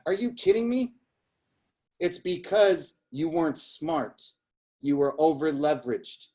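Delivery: a hint of Sicilian Bostonian accent; Sicilian Bostonian grandfather. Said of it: "in his, his Sicilian voice, uh, Bostonian".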